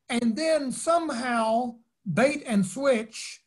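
imitated Brooklyn accent, pitched high, slow and emphatic; William Sloane Coffin. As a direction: play the musing mentor with a hint of Brooklyn. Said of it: "I remember William Sloane Coffin saying".

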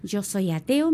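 mild imitation of a doctor's yell; retold shout. Doctor declaring his atheism to a patient, mildly mock-shouted. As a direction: raise the voice a little, quoting him. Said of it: "me grita y me dice".

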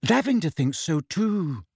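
high, sighing gloom; gloomy. A narrator's reading. Hermione confirming Lavender agrees, gloomy. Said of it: "she said gloomily".

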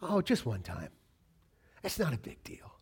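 hushed, near-whispered sly temptation; tempting old man. Acted. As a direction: whisper it like the old self coaxing you to sin. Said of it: "this old man in you going".

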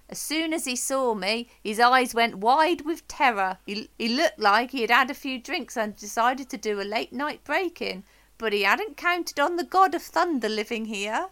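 put-on light Swedish accent; a hint of a Swedish accent. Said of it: "That was my Swedish accent".

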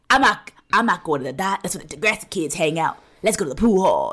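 a put-on greaser voice, lightly done, with a laugh near the end; mock tough guy voice. Podcaster mimics Johnny talking like the Grease greaser, mock tough voice. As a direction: play a greaser from Grease sneering at the Degrassi kids. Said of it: "it's how he talks".

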